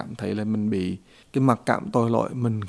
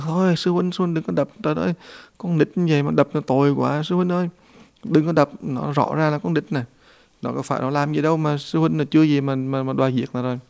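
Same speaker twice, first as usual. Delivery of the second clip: lightly voiced plea, pitched higher; pleading disciple; 4 semitones higher than usual. Pigsy begging his elder brother to spare a child, higher pleading. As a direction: protest in a higher voice, begging for restraint.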